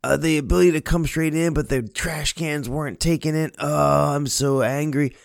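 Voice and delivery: a husband griping at his wife, hammed up lightly; angry husband. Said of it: "He's angry at his wife".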